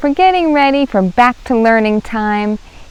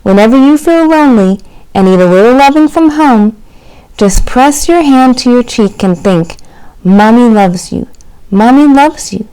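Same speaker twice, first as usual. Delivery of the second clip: tender mother; 4 semitones higher, 6 dB louder than usual. Acted. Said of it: "she told Chester".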